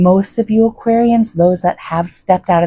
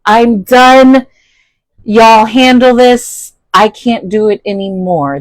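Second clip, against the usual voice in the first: exasperated giving up; 3 semitones higher, 5 dB louder than usual. Pretend. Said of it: "lay back and say".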